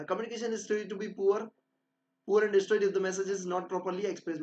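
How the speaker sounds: slow, deliberate dictation of a definition; slow textbook reading. Acted. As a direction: read it out as if dictating notes. Reads textbook definition slowly. (धीरे-धीरे notes लिखवाते हुए)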